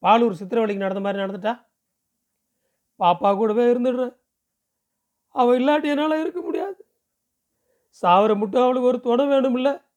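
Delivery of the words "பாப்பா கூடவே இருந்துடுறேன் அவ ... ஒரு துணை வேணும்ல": high, insistent plea; emotional pleading. A narrator's reading. Relative begging to stay with the girl till death, high pleading. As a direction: beg in a raised, rising voice.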